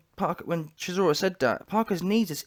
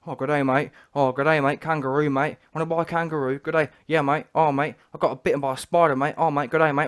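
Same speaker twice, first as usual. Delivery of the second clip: put-on lampoon him in a jokey Australian accent; mock Australian. Podcaster mocks Parker's excuses in mock Australian accent.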